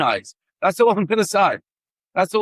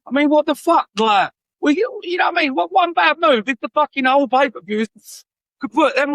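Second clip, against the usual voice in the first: exasperated outburst; 6 semitones higher than usual. Real, not acted. Ranting at Tony Khan about the risky match, exasperated shout. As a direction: let the frustration boil over into a shout.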